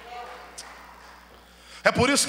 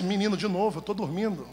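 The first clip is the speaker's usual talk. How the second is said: sleepy grumble; 5 dB quieter than usual. Acted. Sleepy pastor grumbling at boy.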